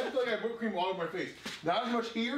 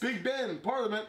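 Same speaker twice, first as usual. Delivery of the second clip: badly faked British accent with swooping pitch; attempted British accent; 3 semitones higher than usual. Player bluffing through the accent challenge, attempted British accent. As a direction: put on an exaggerated, unconvincing British accent. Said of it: "It's British".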